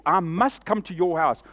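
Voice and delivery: intense call. Retold or imitated. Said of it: "There was a level of intensity there".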